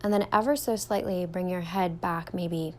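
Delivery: calm, even meditation guide with long pauses; guided meditation. Real, not acted. Yoga teacher leading listeners through a standing meditation, calm guided delivery. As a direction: guide them gently through each step, leaving room to breathe.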